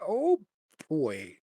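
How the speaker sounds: sarcastic dread. Real, not acted. Dread at the saving throw.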